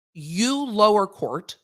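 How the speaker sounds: slow scolding. Retold or imitated. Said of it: "the appellate court saying".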